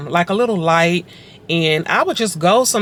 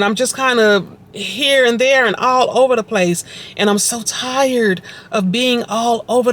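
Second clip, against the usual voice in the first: retold pleading prayer; 5 semitones higher than usual. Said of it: "I was crying out and I was just like".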